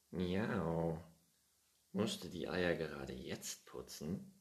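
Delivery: impatient, whiny cat voice; the cat grumbles that the work takes too long; annoyed cat. Acted. The cat Findus nagging Pettersson, mildly annoyed. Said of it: "fragte der Kater ärgerlich".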